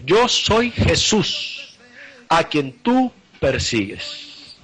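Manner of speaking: voz solemne de Jesús. Acted. Jesús habla a Saulo.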